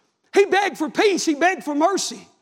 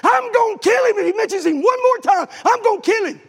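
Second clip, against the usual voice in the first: angry threat; 5 semitones higher, 3 dB louder than usual. Retold or imitated. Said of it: "He said".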